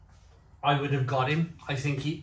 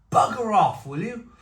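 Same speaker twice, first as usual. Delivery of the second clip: annoyed shout; 6 semitones higher, 4 dB louder than usual. Pretend. Shouting back at the caller.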